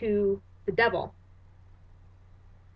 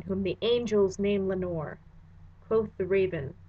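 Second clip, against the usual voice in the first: measured, dramatic recitation of verse; solemn verse reading; poem reading. Acted. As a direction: read it like a haunted poet. Reads The Raven aloud.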